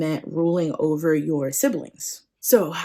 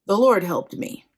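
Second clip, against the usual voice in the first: hesitant, nervous chuckle before answering; stall, then offer a nervous excuse; mock-nervous stammering excuse. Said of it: "Jacob's probably super nervous right now".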